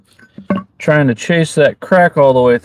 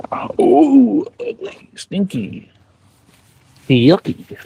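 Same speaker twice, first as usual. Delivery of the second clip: high, squeaky disgusted voice; cartoonish grossed-out squeal; mock disgust; 11 semitones higher, much slower than usual. Mocking canned oysters.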